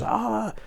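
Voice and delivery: soft, high mock wail; mock scream. Retelling wife's hysterics over the dog, soft high mock scream. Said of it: "She's screaming and crying".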